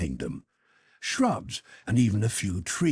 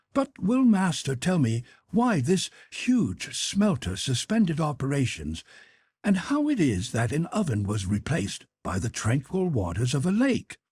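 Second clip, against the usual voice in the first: lightly voiced Conseil; 4 semitones higher than usual. Conseil asks the professor.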